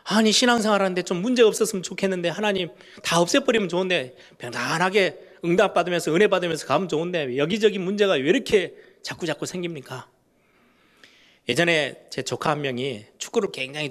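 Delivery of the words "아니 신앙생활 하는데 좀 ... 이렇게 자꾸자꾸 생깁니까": higher, fed-up whining protest; annoyed complaint. Retold or imitated. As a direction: sound irritated, as if it's unfair. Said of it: "막 짜증날 만큼 힘들어합니다". (짜증 난 성도가 하나님께 높게 투덜대듯)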